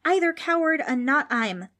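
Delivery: high, loud indignant outburst; shouted protest. A narrator's reading. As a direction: blurt it out at full voice. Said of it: "Frank suddenly shouted".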